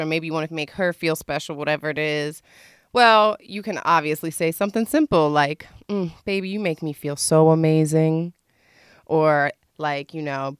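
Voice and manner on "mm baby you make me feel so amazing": understated sweet talk to a lover; sensual. Shown as a demonstration. Showing simple pillow talk for a boo, lightly sensual. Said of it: "trying to be sensual with your boo-boo".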